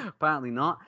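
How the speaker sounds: high burst of laughter; laughing. Real, not acted. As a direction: laugh at the joke. Laughing at the unnamed brewers.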